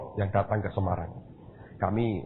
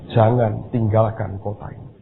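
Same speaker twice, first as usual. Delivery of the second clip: louder, slow and commanding; firm, louder command; 6 dB louder, slower than usual. Retold or imitated. Preacher repeating God's command louder and slowly. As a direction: repeat the order with full weight.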